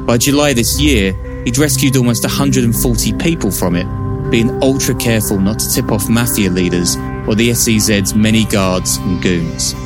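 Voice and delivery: measured true-crime narration over music; documentary narration. Acted. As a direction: read it like a dramatic crime documentary. Narrated podcast intro over music.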